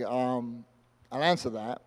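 low, soft hesitant dad; awkward stalling. Retold or imitated. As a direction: stall quietly for time.

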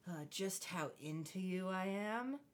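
low, soft, slow come-on; hammed-up creepy charmer; mock sleazy flirt. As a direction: lay on the smarm, deep and soft. Imitating Chuck's sleazy line.

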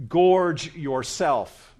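loud, very slow, each word leaned on; "Gorge" drawn out and punched loud; emphatic urging. Acted. Preacher dramatizes the emphatic translation.

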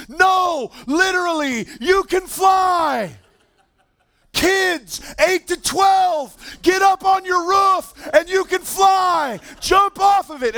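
high, loud, slow shouted declaration; hyped-up athlete. Retold or imitated. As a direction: stretch it out like a wild promise. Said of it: "he's so hyped up right now".

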